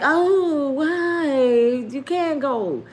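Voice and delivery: high, loud fangirl outburst; starstruck gushing. Retold or imitated. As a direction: gush at a star on your doorstep. Starstruck fan opens hotel door.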